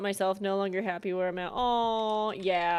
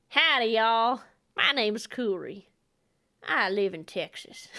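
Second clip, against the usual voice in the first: put-on Southern accent. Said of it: "I don't know why I went Southern".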